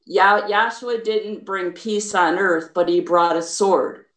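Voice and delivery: slow down and calm the nerves. Real, not acted. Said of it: "I'm gonna slow down".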